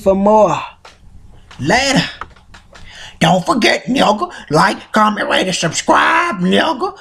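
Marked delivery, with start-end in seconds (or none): 3.2-7.0 Stinkmeaner voice. Acted. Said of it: "my Stink Mina voice impression".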